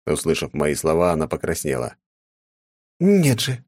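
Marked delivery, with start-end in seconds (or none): 3.0-3.6 громкий высокий возглас; вскрикнуть в смущении; воскликнув. A narrator's reading. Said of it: "воскликнула Лунгина". (воскликнула)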